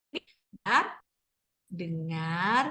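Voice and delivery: drawn-out, rising storybook cue; reading to children. Shown as a demonstration. Teacher reading a story cue to listeners, slow and rising. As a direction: stretch each word to make them listen. Reads picture book aloud.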